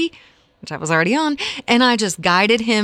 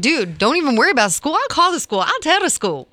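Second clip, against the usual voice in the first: animated, higher, quick brush-off of worries; reassuring mom quote; 4 semitones higher, faster than usual. Retold or imitated. Mom telling worried son not to worry about school, reassuring. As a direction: rattle off mock-casual reassurance, pitched up.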